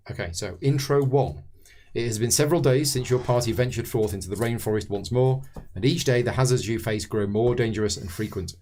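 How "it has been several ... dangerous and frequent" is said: measured scenario read-aloud; story narration. A narrator's reading. Host reading the scenario intro to fellow players, narrating.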